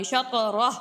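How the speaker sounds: شطرہ stopped, the ending said as ha; pause form. Shown as a demonstration. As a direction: stop on شطرہ with a final ha. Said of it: "اس طرح سے".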